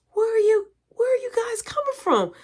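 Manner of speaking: a father catching his sons at night; stern dad. Retold or imitated.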